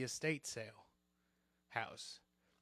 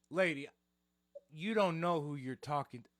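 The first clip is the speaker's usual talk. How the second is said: lightly played mobster, firm; goomba mode; 4 dB louder than usual. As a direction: put her in her place like a mock wiseguy. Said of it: "I went full Goomba mode".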